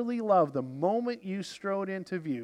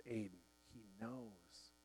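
fading to a hush, much softer; 8 semitones lower, 23 dB quieter than usual. A narrator's reading. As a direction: let "He knows" sink to a near breath, very soft and falling. Quiet inner voice answering Aidan.

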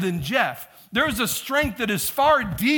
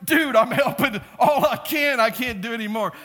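raised, higher-pitched mock protest; exasperated protest; 4 semitones higher, 3 dB louder than usual. Overworked spotter answering his partner, exasperated protest. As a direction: protest at your lifting partner. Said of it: "And I'm like".

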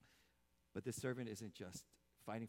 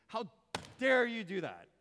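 mock furious shout, much higher and louder; angry God; 11 semitones higher, 16 dB louder than usual. God imagined scolding sinners, hammed-up furious shout. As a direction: bellow it as the feared angry God. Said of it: "we think God will say".

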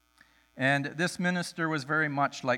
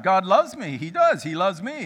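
louder, firm insistence; arguing insistence; 4 semitones higher, 7 dB louder than usual. Retold or imitated. Drunk guy arguing for God's love, loud. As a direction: argue it like you mean it. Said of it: "started arguing for the love of God".

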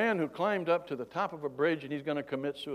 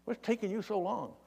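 lightly voiced impatient wife, pitched up; higher-pitched imitation of a wife's question; 7 semitones higher, 3 dB quieter than usual. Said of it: "My wife's saying".

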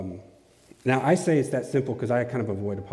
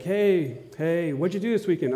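higher-pitched, casual friendly greeting; chatty coworker; 6 semitones higher than usual. Acted. Coworker asking about the weekend, chatty and higher. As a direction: play a coworker striking up small talk. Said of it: "I'm talking to somebody at work".

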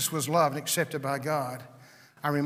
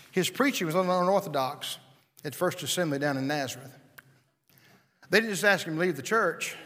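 ordinary talk, nothing marked

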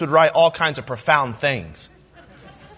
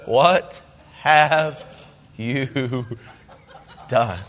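hammy stage actor; 7 semitones lower, much slower than usual. Shown as a demonstration. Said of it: "it sounds like I'm being theatrical".

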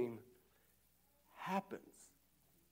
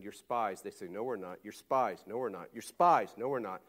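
comedy routine back and forth; 6 semitones lower than usual. Retold or imitated. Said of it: "It's like a comedy, comedy routine".

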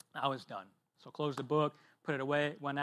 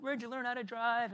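mock road-rage yell, pitched higher; retold angry cussing; 8 semitones higher, 3 dB quieter than usual. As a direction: imitate the angry driver's outburst. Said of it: "cussing me out and saying".

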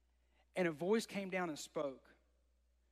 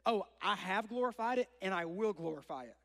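booming voice from heaven; 3 dB louder than usual. Retold or imitated. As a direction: boom it out like a voice from the sky. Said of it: "a loudspeaker playing super loud".

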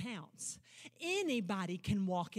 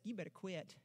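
low, hushed taunting tempter; whispering-close devil mocking the listener; mocker's voice; 7 semitones lower, 8 dB quieter than usual. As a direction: sink low and soft to taunt. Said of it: "when he shows up and says".

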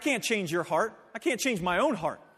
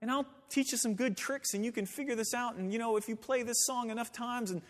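mock wrong version; 2 semitones higher, 7 dB quieter than usual.

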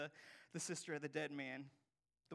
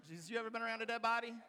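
lightly hammed-up Martha, quick and louder; concerned Martha; 4 semitones higher, 5 dB louder, much faster than usual. Preacher plays Martha raising a practical concern with Jesus, lightly hammed-up. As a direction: hurriedly put a practical concern, half comic. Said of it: "these were real people with real concerns".

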